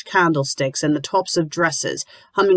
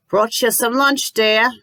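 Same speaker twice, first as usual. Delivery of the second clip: bright high cheerful offer, pitched up; 6 semitones higher than usual. A narrator's reading. Landlady bringing Lucy lunch, cheerful and high. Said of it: "she says cheerfully".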